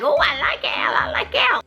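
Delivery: whispered, high, gushing mom; mom's gushing whisper. Retold or imitated. Mom gushing about Al in a whisper. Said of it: "It was so funny".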